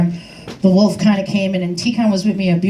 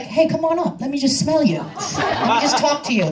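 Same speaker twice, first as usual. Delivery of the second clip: coyotes voiced; 7 semitones higher, 3 dB quieter than usual. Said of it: "They got T-Cons like".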